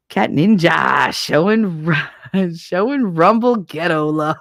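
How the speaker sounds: laughing out a slow, loud greeting; giggly shout-out. Real, not acted. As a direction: stretch the name while cracking up.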